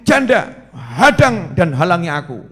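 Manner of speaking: bold challenge. Retold or imitated. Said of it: "Ini gagah".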